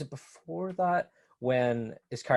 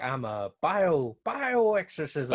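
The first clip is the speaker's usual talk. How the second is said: quoting Beetlejuice; 3 semitones higher, much slower than usual. Retold or imitated. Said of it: "he's like".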